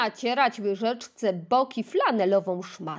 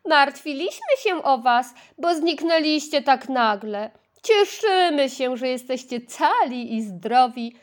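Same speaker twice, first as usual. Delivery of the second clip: friendly; 3 semitones higher, 5 dB louder than usual. Acted. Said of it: "powiedziała przyjaźnie".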